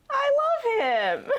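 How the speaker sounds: high, slow, teary gush; gushing mock sob. Real, not acted. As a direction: swoon over him with a fake sob. Gushing over a character.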